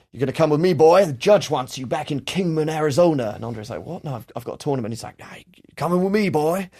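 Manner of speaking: lightly voiced southern cop; a hint of a menacing backcountry lawman; southern cop drawl. Cop arresting Andre, light southern drawl. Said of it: "get a little bit Deliverance".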